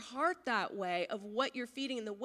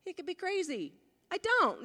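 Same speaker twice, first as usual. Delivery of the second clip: wary caution; 5 semitones higher than usual. Retold or imitated. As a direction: sound the inner alarm bell. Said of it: "I was kinda like".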